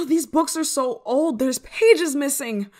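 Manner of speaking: high, loud frustrated rant; exasperated. Acted. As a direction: rail at a useless spellbook, sighing between lines. Exasperated at useless spellbook.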